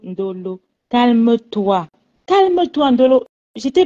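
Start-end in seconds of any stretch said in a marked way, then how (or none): 0.0-0.6 firm raised call; calling her name. Real, not acted. Mother calls to daughter on a livestream.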